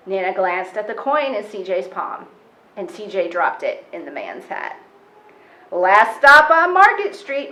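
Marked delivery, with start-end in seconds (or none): 5.7-7.5 bus driver announcing the stop, louder; calling out. A narrator's reading. Driver Mister Dennis announcing the last stop, called out loud. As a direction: call it out to the whole bus. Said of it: "Mister Dennis called".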